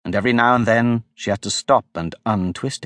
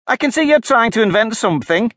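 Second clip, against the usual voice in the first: fretful pigeon; 11 semitones higher, 4 dB louder than usual. A narrator's reading. Weary pigeon complains to Alice about serpents.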